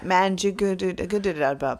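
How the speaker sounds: "Manjugadudagudadudabup" babbled as a muddled string of repeated syllables; garbled mispronunciation. Retold or imitated. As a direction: tumble through "Manjugadudagudadudabup" with extra syllables. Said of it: "they all say their own version, like".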